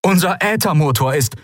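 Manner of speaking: high, strained radio voice; distress report. A narrator's reading. Wrecked captain reports engine trouble to rescuer, high strained voice. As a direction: report damage in urgent distress.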